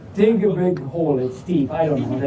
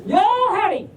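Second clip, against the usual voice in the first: playful Southern howdy, pitched up; Southern greeting; 10 semitones higher than usual. Pretend. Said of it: "Southern Border Collie".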